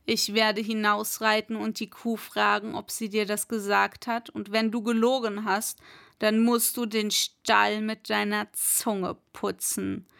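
a hint of a commanding master; herrischer Schlossherr. Voices the lord's orders. (leicht angedeuteter herrischer Schlossherr)

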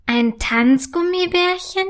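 slow, high astonished question; wide-eyed disbelief, drawn out and high; staunend. Acted. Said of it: "Mit großen Augen starrt sie". (langsam und hoch staunend gefragt)

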